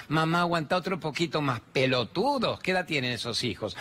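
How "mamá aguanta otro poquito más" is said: mocking the kids. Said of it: "Que te lo digan tus hijos".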